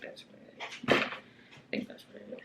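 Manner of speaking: unvoiced whispered aside; whispering. Real, not acted. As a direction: whisper it to yourself, unsure. Unsure aside about colour.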